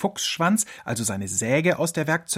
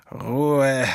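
sleepy fox grumbling; grumpy mumble; 4 dB louder than usual. A narrator's reading. Fox woken by his alarm clock, grumbling. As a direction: grunt it half asleep. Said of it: "murmelte er".

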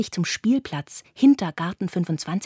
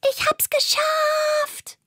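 much higher, slow, proud spider cry; triumphant; slower than usual. A narrator's reading. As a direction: savour the victory, drawn out. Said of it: "und winkt gleich". (hoch und triumphierend, gedehnt)

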